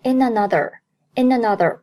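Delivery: "in another" run together as one word; linked pronunciation. Shown as a demonstration. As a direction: link the n of "in" into "another". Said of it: "in和another连读".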